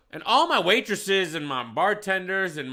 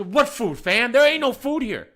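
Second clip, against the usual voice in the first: incredulous retort; 7 semitones higher, 5 dB louder, slower than usual. Retold or imitated. His baffled retort to the customer.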